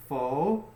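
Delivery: "Photogenic" sounded out for students; teacher sounding out "Photogenic"; careful model pronunciation. Shown as a demonstration. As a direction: say photogenic syllable by syllable. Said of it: "how do we say the word".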